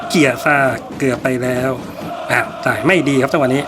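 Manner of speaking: match commentator following each pass; football play-by-play. Pretend. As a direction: call the game live, name by name. Calls the match live. (พากย์ฟุตบอลสด)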